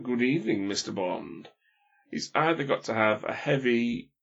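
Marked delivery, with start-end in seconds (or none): 0.0-1.5 silky villain. Shown as a demonstration. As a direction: deliver a smooth villain's greeting, falling away. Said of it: "he's got to sound silky smooth".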